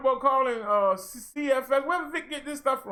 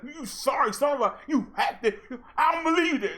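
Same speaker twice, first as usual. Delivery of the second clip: mock angry woman; 3 semitones higher than usual. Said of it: "they gonna be like".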